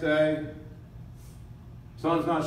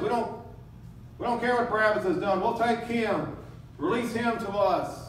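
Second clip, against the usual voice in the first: a mildly raised, insistent mob chant; jeering crowd; 4 semitones higher than usual. Acted. Preacher voicing the crowd shouting for Barabbas, lightly mocking. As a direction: play the fickle crowd demanding Barabbas, a touch higher.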